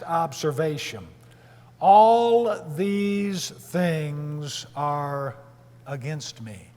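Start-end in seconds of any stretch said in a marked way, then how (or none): 1.8-6.7 despairing lament. Acted. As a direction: lament it word by word, dropping away. Acting out Jacob's despairing lament.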